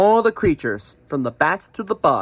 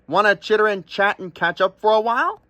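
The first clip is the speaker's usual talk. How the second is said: a higher, chirpy crow voice; chatty crow; 6 semitones higher than usual. Acted. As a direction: chatter like a friendly bird.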